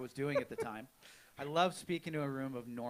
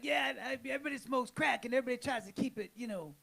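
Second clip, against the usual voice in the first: hammed-up New Orleans character, pitched way up; Shorty's New Orleans accent; 7 semitones higher, faster than usual. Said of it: "Did he talk to you in that voice?".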